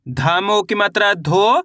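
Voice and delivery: धो slowly, each part pulled apart; धीरे धीरे जोड़कर. Shown as a demonstration. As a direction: spell it out slowly for the class. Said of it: "अब उच्चारण किस तरीके से करेंगे". (धीरे-धीरे, अक्षर जोड़ते हुए)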